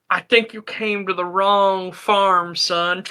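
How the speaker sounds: slow, stiff, stilted farmer drawl; a lightly voiced redneck speaking stiltedly and slowly. Farmer warning the visitor, slow stilted redneck voice. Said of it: "trying to speak really stiltedly".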